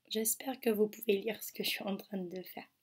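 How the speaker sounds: quick whispered aside to herself. Real, not acted. Teacher whispering while writing on screen, quiet aside. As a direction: murmur it under your breath.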